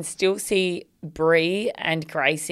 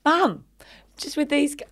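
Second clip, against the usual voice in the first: put-on much higher little girl voice; child's voice; 9 semitones higher than usual. Imitating her daughter at the fence, high and childlike. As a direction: pipe it up like a small kid.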